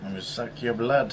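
a hint of a hammy Count; vampire voice. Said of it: "speaking more like a vampire".

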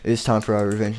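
low, menacing villain threat. Acted. Old costume threatening the new robots, low and menacing. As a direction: growl out the threat of revenge.

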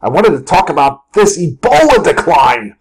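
mildly acted exasperated scolding; half-earnest irritated outburst; mock cursing rant. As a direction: scold the chart, drawing out the last question. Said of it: "I'll just start cursing out of nowhere".

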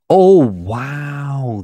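loud, startled exclamation; shocked wow. Real, not acted. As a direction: blurt it out in real shock. Shocked at set price.

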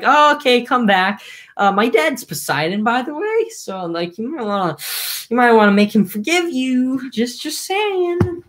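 offhand modern paraphrase, lightly voiced; casual mock giant. Reader mocking Polyphemus in slangy retelling, half-hearted casual voice. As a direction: toss it off like a shrugging teen. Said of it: "Polyphemus is like".

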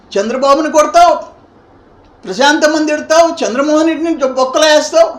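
loud, heated accusations hammered out one after another; angry berating. Real, not acted. Politician loudly rebuking a rival over his abuse, angry. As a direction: scold him hard and loud, building outrage.

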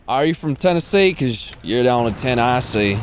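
playful southern pickup line; Southern US accent, hammed-up flirting. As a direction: deliver it in a put-on southern twang. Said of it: "the southern voice is so, uh, fitting for those".

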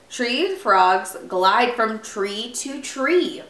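slow, measured early-reader narration; reading to children. Acted. Reader shares a tree frog book with children, slow reading. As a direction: read it slowly, word by word.

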